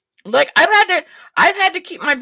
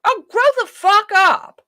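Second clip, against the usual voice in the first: quoting the singer; 8 semitones higher than usual. Retold or imitated. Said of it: "She said".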